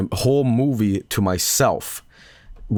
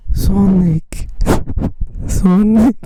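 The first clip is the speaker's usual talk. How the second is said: high, loud fanboy yell with a laugh; yelling Sonic; 9 semitones higher, 6 dB louder, much slower than usual. Pretend. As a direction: scream the name at the screen. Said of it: "the same bit as I did".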